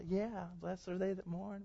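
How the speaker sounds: mock contented murmur of assent; imitated complacent agreement. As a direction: play a smiling listener dreamily agreeing. Imitates smiling listeners agreeing.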